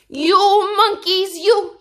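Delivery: high, loud, slow scolding; angry scolding. Acted. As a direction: wag a finger and scold the monkeys. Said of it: "This made the peddler angry".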